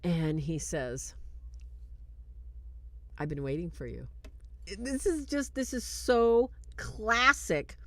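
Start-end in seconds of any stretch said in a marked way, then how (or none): 3.2-4.1 understated demon, low and mocking; lightly voiced demon, dropped in pitch; a hint of quiet, taunting menace; demonic voice. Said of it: "in a demonic voice".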